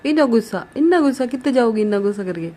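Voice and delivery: playful mock scolding. Real, not acted. Teasing angry baby.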